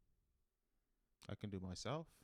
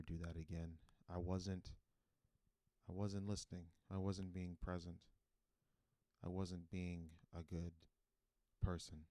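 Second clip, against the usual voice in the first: apology. Pretend. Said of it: "I want to apologize".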